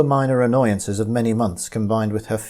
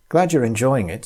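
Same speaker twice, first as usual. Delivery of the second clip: smiling; 2 semitones higher than usual. Acted. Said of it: "smiling down at her".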